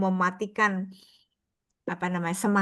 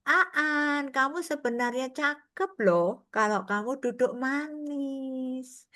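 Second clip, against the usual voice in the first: gentle coaxing; 4 semitones higher, slower than usual. Retold or imitated. Nun gently coaxing the hyperactive pupil Aan to sit, slow and tender. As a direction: coax the restless boy kindly.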